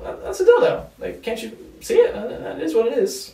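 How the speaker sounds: mock-incredulous, half-laughing comeback; heated retort. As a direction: fire it back like it's obvious. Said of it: "I'm getting heated".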